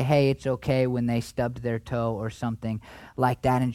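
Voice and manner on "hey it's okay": put-on comforting a child. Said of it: "like you would talk to a little girl child".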